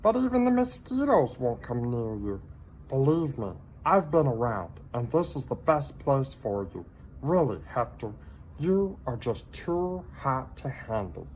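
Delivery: high little creature voice, gently pitying; a tiny pet breaking hard news kindly; sympathetic salamander voice. A narrator's reading. Minton consoling lonely Hector, high sympathetic voice. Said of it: "said Minton".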